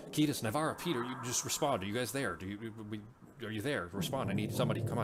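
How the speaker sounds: mildly panicked calling out over a radio; panicking director. Acted. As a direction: call for a response, flustered and stumbling. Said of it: "you start hearing the director panicking".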